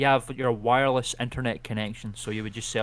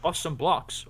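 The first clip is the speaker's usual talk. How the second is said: game character voice; 5 semitones higher than usual. Acted. Voicing Minecraft Steve.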